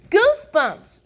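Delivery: high, loud burst; excited shout. A narrator's reading. Sheldon suddenly finds goosebumps, shouting. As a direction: shout out the discovery. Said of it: "shouted Sheldon".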